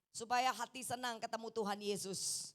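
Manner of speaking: ordinary talk, nothing marked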